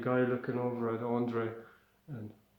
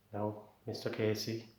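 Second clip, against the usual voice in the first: calming doctor; 4 semitones lower, 6 dB quieter than usual. Acted. Doctor calming the screaming patient.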